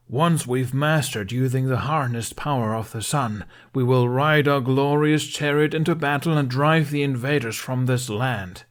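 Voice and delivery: grand, loud rallying declaration; heroic speech. A narrator's reading. Tuffnut posing on the carriage, grand heroic speech. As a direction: proclaim it like a hero. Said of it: "in a heroic pose".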